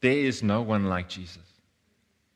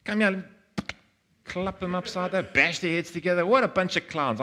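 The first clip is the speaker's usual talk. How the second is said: high-pitched exasperated rant; acted fed-up scolding; frustrated; 9 semitones higher than usual. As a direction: rail at hopeless pupils, voice pitched up. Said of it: "Frustration with them".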